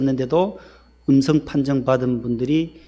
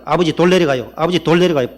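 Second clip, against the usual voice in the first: quicker drill; 3 semitones higher, 4 dB louder than usual. Retold or imitated. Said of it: "좀 빨리 대답하".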